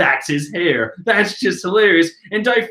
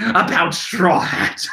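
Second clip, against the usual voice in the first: Brulee's voice; slower than usual. Retold or imitated. Reader rewinds and redoes Brulee's line in her own voice. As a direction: start over as the sister. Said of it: "That's Brulee talking".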